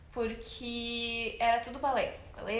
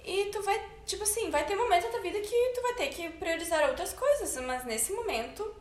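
higher, encouraging mom voice; mother's voice; 6 semitones higher than usual. Retold or imitated. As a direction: play the supportive mother, pitched up. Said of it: "Minha mãe olhou pra mim assim". (voz da mãe, mais aguda)

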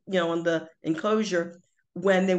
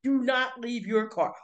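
mock stern sign; 5 semitones higher than usual. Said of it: "It says there are si".

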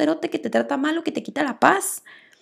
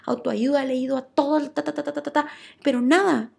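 mimicking client; 3 semitones higher, 3 dB quieter than usual. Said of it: "con una clienta me decía".

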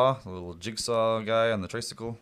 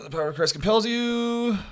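shrill exorcist shout; 13 semitones higher, 4 dB louder than usual. Acted. Quiz host reads exorcist quote.

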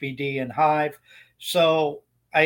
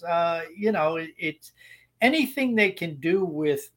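usual speaking voice

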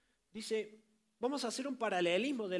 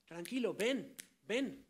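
tender invitation; 4 dB louder, slower than usual. Acted. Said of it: "el Señor te dice".

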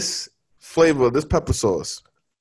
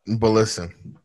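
slow theatrical villain menace; 4 semitones lower, 3 dB quieter, slower than usual. Acted. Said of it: "why do you sound like the villain on every major anime?".

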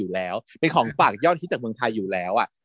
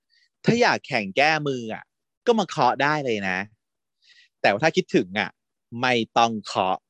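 drawn-out, slow flirty tease; slow teasing invite. Retold or imitated. Pat teasing his rival in a slow drawn-out voice. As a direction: stretch it out slowly to tempt him. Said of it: "ไอ้พัดสิ เขาก็บอกว่า".

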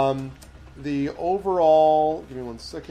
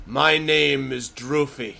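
slow then louder, proud declaration; proud giantess; 3 semitones higher, 5 dB louder than usual. Acted. Giantess introducing herself to the party, slow and proud. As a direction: announce your name like a threat. Giantess announces her name.

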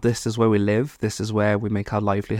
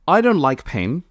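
emphatic little confession, lifted at the end; as if bravely confessing; 3 semitones higher than usual. Real, not acted. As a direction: declare it like a brave admission. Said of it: "like it was a brave statement".

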